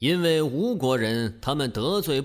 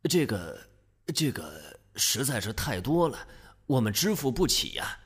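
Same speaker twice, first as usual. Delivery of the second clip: stammering dismay; 2 semitones lower, 3 dB quieter than usual. Acted. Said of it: "鲁国人一听就傻眼了".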